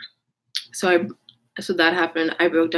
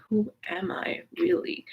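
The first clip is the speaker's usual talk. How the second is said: high breathless whisper; a high, unvoiced whisper to yourself; whispered wondering; 12 semitones higher, 7 dB quieter than usual. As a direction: whisper it, lost and searching. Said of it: "I was like".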